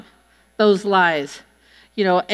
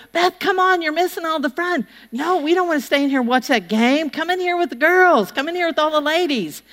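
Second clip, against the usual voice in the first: high, sing-song coaxing ladies; coaxing church ladies; 5 semitones higher than usual. Retold or imitated. Church ladies to Beth, high sing-song coaxing. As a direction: sweetly coax her into the room.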